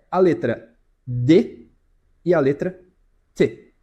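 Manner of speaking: slow, deliberate D then T; letters D and T contrasted. Shown as a demonstration. Teacher contrasting D and T for students. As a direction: say D and T, slow and clear. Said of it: "Qual você acha que tem mais vibração".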